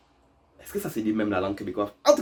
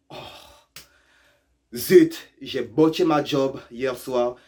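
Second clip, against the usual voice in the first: mock local; slower than usual. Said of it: "Eux, ils vont dire".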